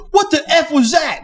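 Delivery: high-pitched mock startled yell; mock scream. Pizza counter kid reacting to the blast, mock scream. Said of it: "he runs out screaming".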